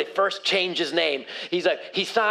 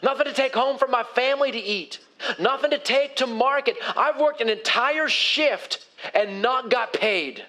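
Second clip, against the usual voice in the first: tired complaint; 4 semitones higher than usual. Acted. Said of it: "Simon was communicating all of that".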